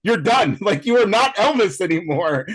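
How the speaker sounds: mock pleading, pitch climbing steadily; exasperated plea. Retelling a plea to Austin Butler, exasperated. Retold plea to actor keeping accent.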